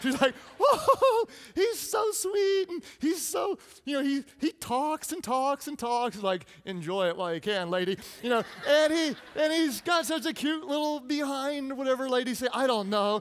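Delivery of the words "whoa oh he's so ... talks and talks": put-on rough attempt at a pitched-up girl's voice. Retelling how a girl reacted to him, imitating a girl's voice. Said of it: "It doesn't sound like a girl, but it's the best I got".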